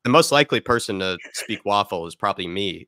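stuffy head cold voice; talking through a blocked nose. Real, not acted. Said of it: "I'm a bit stuffy in the head".

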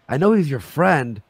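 usual speaking voice

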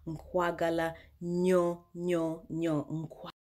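slow "Nkwagala Nyo", stretching "nyo"; Luganda love phrase. Shown as a demonstration. Teaching viewers to tell a lover, slowly. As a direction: draw out "Nkwagala Nyo" lovingly. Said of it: "you tell them".

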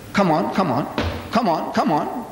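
impatient acted prodding, repeated; impatient urging. Reverend presses the silent Maulana for an answer, impatient. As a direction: goad a stalling opponent for an answer.

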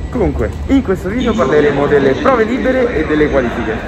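muffled behind a face mask; talking with a mask on; through a face mask. Real, not acted. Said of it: "appunto con la mascherina". (voce attutita dalla mascherina)

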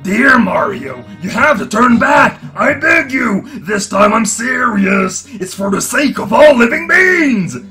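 pleading. Acted. Character begs Mario to stop.

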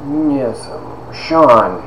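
eccentric professor, drawn out with long pauses; Doctor Stoneburner. Retold or imitated. Teacher asking student to tell his story, eccentric impression. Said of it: "he was all eccentric".

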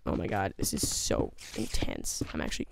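low, breathy near-whisper; hushed, tense. Real, not acted. Scared gamer to himself in a creepy dungeon, hushed. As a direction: murmur it, barely voiced, on edge.

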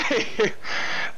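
breathy, voiceless huff; exasperated huff. Real, not acted. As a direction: huff out in disbelief. Exasperated at lurking phantom.

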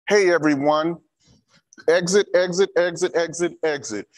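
urgent shouted exit orders; hey everyone, shouted evacuation call. Shown as a demonstration. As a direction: call the room to the exits like a warden.

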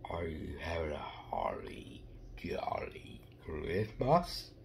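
slow soft whisper. Pretend. Kid whispering a Christmas question to the viewers. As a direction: whisper it slowly like a secret.

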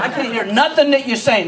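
mock blubber through a laugh; blubbering kid. Sobbing kid explains himself to a parent, mock blubbering. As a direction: whine it like a crying kid. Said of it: "Now say it again".

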